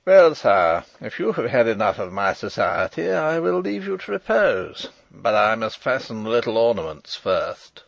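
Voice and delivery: loud, hard jailer's voice taunting the captive king; harsh grating voice. Acted. Jailer Detchard taunting the imprisoned King, harsh and grating. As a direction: rasp it out with cold mockery. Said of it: "a harsh, grating voice".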